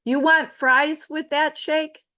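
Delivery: high, slow, loud taunting call; taunting shout. Retold or imitated. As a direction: shout "You want fries with that shake?" mockingly. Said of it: "he shouted after me".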